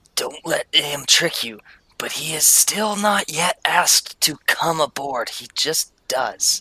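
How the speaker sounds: hushed, secretive, whispered aside. Retelling what the speaker whispered to the kids, whispering. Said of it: "and I whisper to them".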